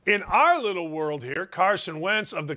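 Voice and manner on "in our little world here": ordinary delivery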